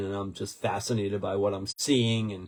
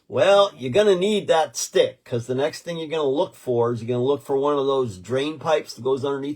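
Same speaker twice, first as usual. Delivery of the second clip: put-on loud, high folksy old man; old-timer advice; 4 semitones higher, 5 dB louder than usual. Storyteller imitates old man giving advice. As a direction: lean in like a wise old local. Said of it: "And he goes".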